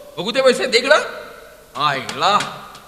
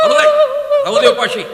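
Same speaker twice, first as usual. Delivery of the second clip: harsh order; 3 dB louder than usual. Acted. Brother orders starving her.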